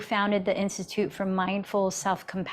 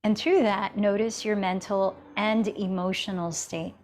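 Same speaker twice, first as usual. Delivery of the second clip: calm, even yoga-teacher guidance with long pauses; guided meditation. Real, not acted. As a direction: guide them gently inward, leaving space between phrases. Leads a seated meditation.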